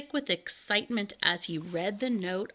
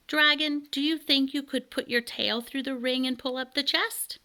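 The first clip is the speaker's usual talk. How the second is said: put-on boy's voice; 6 semitones higher than usual. Elmer asks the dragon.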